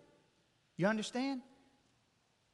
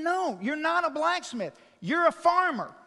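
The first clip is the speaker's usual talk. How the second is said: higher, exasperated correction, pressing hard; frustrated insisting; 5 semitones higher than usual. Acted. Frustrated angel insisting to the stubborn farmer. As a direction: push back hard, fed up with him.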